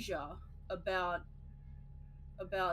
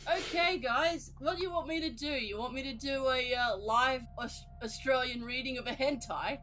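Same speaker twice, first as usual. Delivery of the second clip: mock streamer voice; 4 semitones higher than usual. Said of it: "It's just like".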